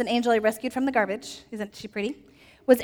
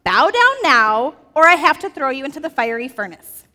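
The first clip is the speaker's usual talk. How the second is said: furious king, higher and louder; angry king; 3 semitones higher, 8 dB louder than usual. Acted. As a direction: drag out bow down now as a threat. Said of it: "And he basically said".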